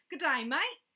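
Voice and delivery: loud, very high Aussie greeting; playful mock Australian; Australian accent. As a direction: call it out in a hammed-up Australian accent. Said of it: "there was an Australian saying".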